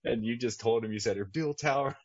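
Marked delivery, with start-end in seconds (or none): 1.2-2.0 imitated pissed-off pilot. Pilot getting back at the tower, mock pissed-off defiance. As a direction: push back, annoyed, stretching out each word. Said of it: "he just is so pissed off".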